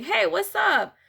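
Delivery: lively casual hey; casual greeting. Shown as a demonstration. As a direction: toss off a quick friendly greeting. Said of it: "It's way more entertaining to be like".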